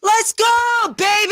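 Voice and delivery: high, loud, over-the-top hype; sarcastic cheer. Real, not acted. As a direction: cheer far too hard, high and loud. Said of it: "that felt, like, super".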